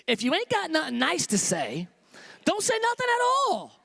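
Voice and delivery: imitating Mama. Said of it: "Mama always said".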